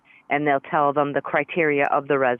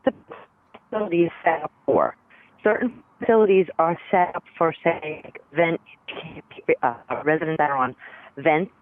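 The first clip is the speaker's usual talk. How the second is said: choppy phone line cutting out; words dropping out over the phone; bad connection. Real, not acted. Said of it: "You're breaking up a little bit".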